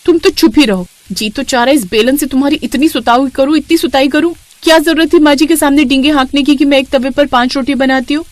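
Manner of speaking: wife scolding her husband for boasting; annoyed wife. Acted. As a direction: tell your husband off.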